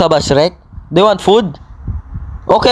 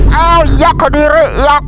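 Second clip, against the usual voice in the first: grossed out; 6 semitones higher, slower than usual. Acted. Grossed out by Shrek.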